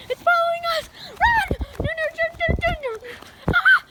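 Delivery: panicked high shouting; scared horror game streamer. Pretend. Beast chasing them.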